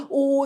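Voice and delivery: 오 as one long 'oh' vowel, done as a mistake; wrong 'o' reading. Shown as a demonstration. Teacher showing learners what not to do, wrong drawn-out 오. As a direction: say 오 as a drawn-out exclamation. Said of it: "이렇게 하시면 안 돼요".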